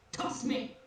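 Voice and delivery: tiny little voice; small and light, asking; tiny tinkling snowflake whisper. Acted. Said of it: "You hear a tiny voice emerge".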